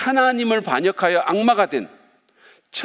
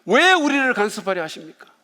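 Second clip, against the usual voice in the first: mild mock yell, higher in pitch; acted-out cry of resistance, only moderately raised; retold defiant shout; 4 semitones higher than usual. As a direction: protest with a hard push on the opening 왜. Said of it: "소리를 지르면서 예수님께 저항합니다".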